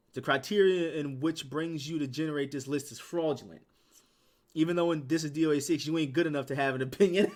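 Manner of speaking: acting out a mad commenter; mock angry. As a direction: read out his angry takedown with force. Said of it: "Why is he so mad".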